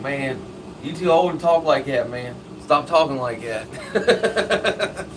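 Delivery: mock exasperated telling-off; playful fed-up complaint; retold scolding. Retold scolding for using slang.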